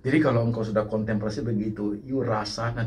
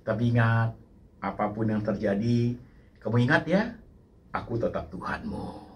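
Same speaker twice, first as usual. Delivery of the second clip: gentle voice of God. Acted. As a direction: speak as a loving God comforting his child. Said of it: "Tuhan ngomongnya kepada engkau begini".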